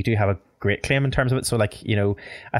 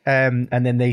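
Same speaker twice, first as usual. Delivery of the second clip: usual speaking voice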